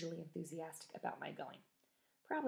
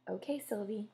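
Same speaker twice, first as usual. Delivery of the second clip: pointed; 3 semitones higher than usual. Acted. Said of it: "in the exact same tone of voice".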